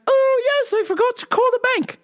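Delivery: mom impression. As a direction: play the mom suddenly remembering. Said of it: "She's like".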